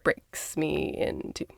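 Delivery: slow, fading near-whisper; close to tears. Real, not acted. Host moved by the boy's question, close to tears. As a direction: hold back real tears, voice almost gone. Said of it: "I will try not to cry".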